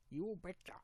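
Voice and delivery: drawn-out Minnesota accent with long O; slow, lilting Minnesota try. Shown as a demonstration. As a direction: stretch YOU in Minnesota style. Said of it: "Minnesota accent".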